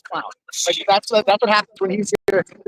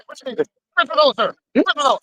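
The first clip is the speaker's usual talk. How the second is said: high mock voice; 9 semitones higher than usual. Retelling the courtroom exchange.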